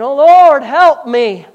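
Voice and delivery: loud, high imitation of a begging believer; whining plea to the Lord; mock pleading cry. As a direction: cry out to God, hammed-up. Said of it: "begging and pleading and moaning".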